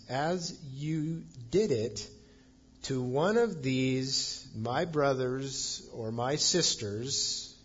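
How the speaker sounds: slow, deliberate weight on each phrase; "As you did it" drawn out word by word; emphatic. Retold or imitated. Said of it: "Jesus is very emphatic here".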